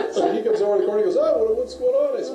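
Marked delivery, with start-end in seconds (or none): 1.2-2.2 high, loud, slow retold bewilderment; clueless question. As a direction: play the oblivious friend, loudly puzzled. Retold clueless friend asking.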